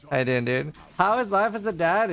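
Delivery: put-on Norwegian accent. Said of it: "Whenever I do a Norwegian accent".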